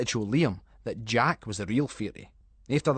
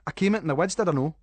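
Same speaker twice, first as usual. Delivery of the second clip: indignant; 5 semitones higher, 4 dB louder, faster than usual. Acted. Callum protesting indignantly.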